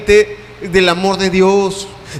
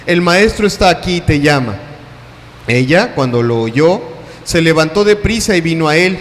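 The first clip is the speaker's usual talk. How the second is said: measured Bible reading, calm and even; scripture reading. Acted. Preacher reading John eleven aloud to the church, measured. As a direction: read the passage out to the congregation.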